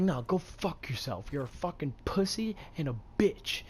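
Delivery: heated insult, short of a scream; mock yell, hard on the swear words; retold screaming. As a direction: imitate your angry yelling at half volume. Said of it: "I was screaming at him".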